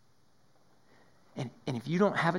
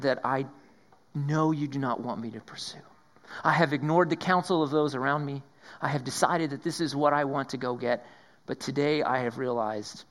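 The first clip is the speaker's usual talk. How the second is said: penitent prayer. Acted.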